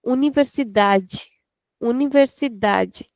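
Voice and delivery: "Universidade" run quickly into a long "da"; quick start, open "da". Shown as a demonstration. Teacher showing the typical sound, quick start and clear DA. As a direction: rush "universi", open up DA, end in "j". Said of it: "we are saying it quickly".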